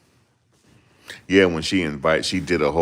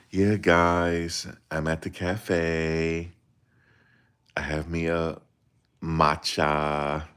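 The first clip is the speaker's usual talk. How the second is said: mocking influencer voice; much slower than usual. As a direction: impersonate her fancy cafe vlog. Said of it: "That's how she talk".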